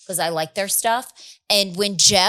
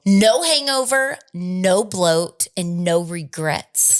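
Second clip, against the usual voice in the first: slogan read; slower than usual. Acted. Ad slogan delivery.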